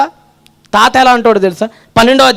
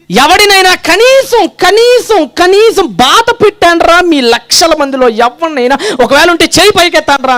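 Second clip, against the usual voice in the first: challenging prophet; 4 semitones higher, slower than usual. Acted. Samuel challenging the crowd.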